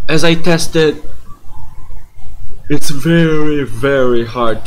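talking through a yawn; sleepy, words stretched by yawning. Real, not acted. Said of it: "I'm sorry that I'm yawning".

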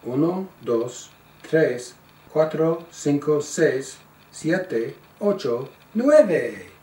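Uno, dos counted clearly in Spanish; counting in Spanish. Shown as a demonstration. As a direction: count out slowly in Spanish for the child. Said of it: "Do it again".

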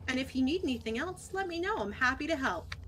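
bright helpful help-desk tone; customer service voice. Shown as a demonstration. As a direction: sound eager to assist. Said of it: "my customer service voice".

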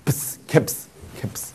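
"piss" and "caps" ending in a crisp voiceless ps; English caps ending. Shown as a demonstration. Teacher likens psi to English caps, popped ps ending. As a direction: land on the ps at the end of "caps". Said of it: "就好像英文的caps".

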